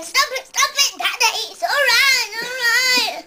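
high laughing plea to stop; excited pleading. Retold or imitated. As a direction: plead with dad through giggles. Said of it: "I'm saying".

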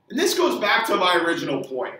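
ordinary talk, nothing marked

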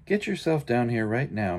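a hint of a bossy mama calling upstairs; ordering mother. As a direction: call him down like a mildly stern mom. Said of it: "ordered Mama Junebug Jones".

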